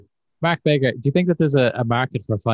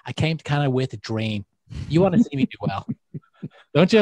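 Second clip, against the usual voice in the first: a hammed-up emigrant's plea, rising higher at the end; mock dramatic sales pitch; 4 semitones higher than usual. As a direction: play up the sob story to win them over. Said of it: "And you know what?".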